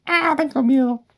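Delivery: high frightened cry; scared squeal. Real, not acted. Scared of wolves outside.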